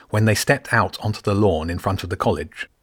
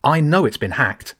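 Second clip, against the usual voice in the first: much higher, irritated retort; snapped; 6 semitones higher than usual. A narrator's reading. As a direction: bite back, annoyed. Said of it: "the caretaker snapped".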